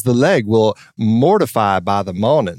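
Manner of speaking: Southern line with the R in mortify sounded; imitating a Southern accent that slips rhotic. Imitating Kidman slipping into a rhotic Southern accent. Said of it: "she switches from non-rhotic to rhotic".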